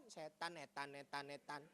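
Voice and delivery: "Setan" run together with blurred first consonant; imitated stroke slur on "setan"; crooked-mouth slur. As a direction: repeat "setan" as if the mouth is twisted. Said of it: "Karena udah mengok".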